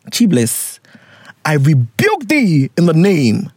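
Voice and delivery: slow, put-on preacher voice, lightly done; mock preacher rebuke. Rebuking the letter writer like a preacher, slow mock sermon. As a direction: play a preacher casting it out, half joking.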